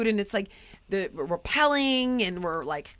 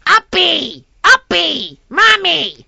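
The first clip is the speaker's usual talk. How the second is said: much higher and louder, a mock whining toddler; whiny toddler; 5 semitones higher, 8 dB louder, much slower than usual. Toddler Phoenix begging mommy to be carried, whining. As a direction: whine it up high like a clingy three-year-old. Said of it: "and screaming for two hours".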